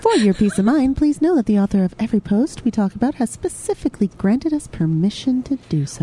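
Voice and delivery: soft, serene disclaimer read; sultry narrator. Acted. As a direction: read it calm and peaceful. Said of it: "you sound so pretty and nice and peaceful".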